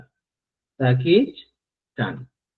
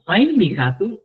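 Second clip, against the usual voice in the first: higher, assured emphasis; raised pitch, confidently vouching for it; assuring; 5 semitones higher than usual. Shown as a demonstration. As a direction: assert it with certainty, pitched up. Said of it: "estoy asegurando que esa persona es grande".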